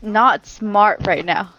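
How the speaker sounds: very slow and dragging; slow speech. Real, not acted. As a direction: stretch out every word slowly. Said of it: "I'm, like, speaking slow".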